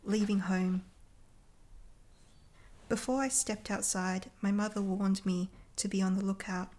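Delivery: steady, measured recital of a poem; poetry reading. Acted. Poet reciting her poem about leaving home, measured and steady. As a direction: read it as a poem, a beat between lines.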